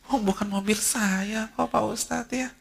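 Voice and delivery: high, slow, breezy put-on voice of a carefree maid; mock carefree maid. Preacher mimicking a maid telling the ustadz, high carefree voice. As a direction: play the unbothered maid, light and high. Maid shrugging off lost car.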